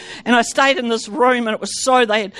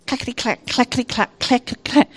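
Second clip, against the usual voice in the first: soft imitated train clacking; hushed clackety-clack of a train; train sound; 3 dB quieter than usual. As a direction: tap out the train rhythm quietly. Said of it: "I heard like a train".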